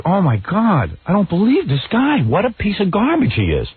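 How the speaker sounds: retold disgust. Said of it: "I'm like".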